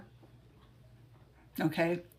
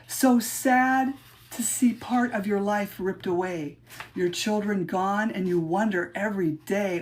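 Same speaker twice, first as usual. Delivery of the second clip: measured, rhythmic recital of her own poem; poem reading; 2 semitones higher than usual. Acted. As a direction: read it like a spoken-word poem, leaning on the rhymes. Reads own poem aloud.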